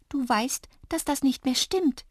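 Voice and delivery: high, tender little voice; loving. A narrator's reading. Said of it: "sagte Drups liebevoll". (liebevoll, mit hoher Stimme)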